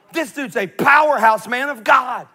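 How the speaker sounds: loud, slow, high, laughing praise; excited shout. Real, not acted. Preacher hyping up Elijah to the congregation, loud and laughing.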